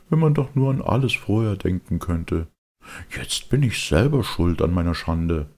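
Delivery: quiet weeping. Acted. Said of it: "Er weinte still und sprach".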